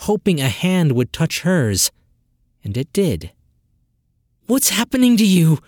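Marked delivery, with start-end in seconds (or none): 4.5-5.6 high, loud urgent demand. Acted. Sister demands answers, high and loud. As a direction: insist on an answer. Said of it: "Sess demanded".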